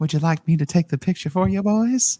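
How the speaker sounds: creepy, unsettling, very high-pitched woman's voice. Speaker retelling a lady who approached them during a selfie, imitating a creepy woman. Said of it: "she sounds so creepy".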